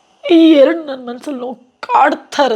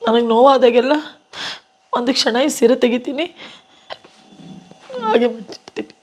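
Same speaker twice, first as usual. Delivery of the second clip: tearful, low voice; 2 semitones lower than usual. Real, not acted. Actress telling interviewer about her husband's saree, low and tearful. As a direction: speak low through tears as if folding something precious. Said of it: "ಅಳ್ಬೇಡಿ madam".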